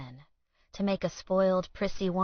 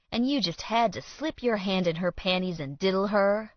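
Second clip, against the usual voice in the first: taunting; 2 semitones higher, 4 dB louder, faster than usual. Acted. Villain taunting rival in confrontation.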